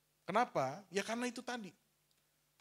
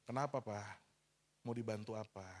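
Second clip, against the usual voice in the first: calm and gentle; 7 semitones lower than usual. Retold or imitated. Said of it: "sekarang saya udah tenang aja".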